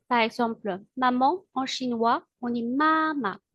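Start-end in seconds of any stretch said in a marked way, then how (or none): 2.6-3.4 "mama" with first syllable held level, second light; "mama" as first tone plus neutral tone; Mandarin tones. Shown as a demonstration. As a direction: stretch the first half of "mama", drop the second short. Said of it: "possède le premier ton".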